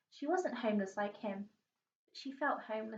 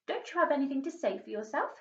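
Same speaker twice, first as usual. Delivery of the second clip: quicker, louder scolding mum; shouting mother; 4 semitones higher, 4 dB louder, faster than usual. Acted. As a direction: demand an answer, sharp and fast. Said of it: "shouted her mother".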